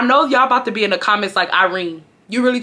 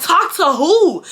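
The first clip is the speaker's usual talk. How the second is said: high, drawn-out question; incredulous; 8 semitones higher, 3 dB louder, slower than usual. Retold or imitated. Teen playing dumb with mom, incredulous. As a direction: re-enact disbelief, stretching out who. Shocked reply to mom re-enacted.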